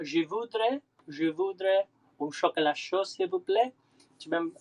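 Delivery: careful learner's French accent; playful go at a French accent. Shown as a demonstration. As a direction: try out phrasebook French, lilting up at phrase ends. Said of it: "How's my accent?".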